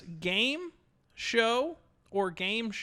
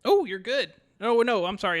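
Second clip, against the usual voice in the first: louder, premature burst of approval, then hasty correction; excited; 6 dB louder than usual. Real, not acted. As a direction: jump in excitedly, then backtrack. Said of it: "I got excited there".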